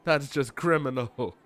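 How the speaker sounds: indignant customer. Acted. Voicing an outraged park guest.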